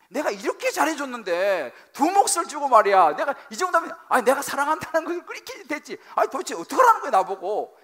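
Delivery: loud, high-pitched protest; frustrated husband. Acted. Husband who gave double portions, protesting in frustration.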